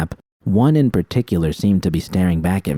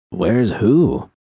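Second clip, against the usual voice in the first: mock innocent; 2 semitones higher than usual. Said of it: "he asked innocently".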